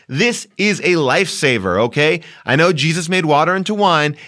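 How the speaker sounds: emphatic sponsor pitch with punched key words; podcast ad read. Acted. Host selling a phone booster to listeners, emphatic ad read.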